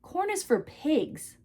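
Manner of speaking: slow, deliberate mock granny; flat granny verdict. Granny tells her grandchild corn is for pigs, slow and deliberate. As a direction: lay it down slowly, like the final word. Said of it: "she looked at me and she went".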